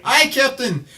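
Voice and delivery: rough attempt at a Scottish accent; Scotty. Cohost attempting Star Trek's engineer, mock Scottish accent. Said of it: "trying to do Scotty from Star Trek".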